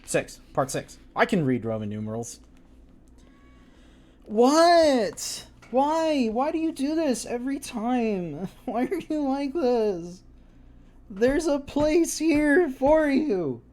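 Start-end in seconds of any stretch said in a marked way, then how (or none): 4.2-13.6 much higher, slow and pleading; high pleading with the cat to sit; mock exasperation. Real, not acted.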